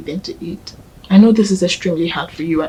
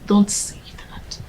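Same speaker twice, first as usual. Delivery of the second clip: whisper; slower than usual. Acted. Whispered comfort to mourner.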